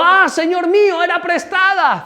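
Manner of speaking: high-pitched cry of dismay, last words drawn out; acted wail, pitched well up; cried out. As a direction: cry out to the Lord in alarm. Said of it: "gritó diciendo".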